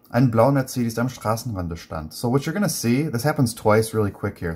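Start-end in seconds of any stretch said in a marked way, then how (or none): 0.1-2.1 plain reading of the German phrase; reading aloud. Shown as a demonstration. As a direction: read the phrase once more, clearly. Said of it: "let's ignore this".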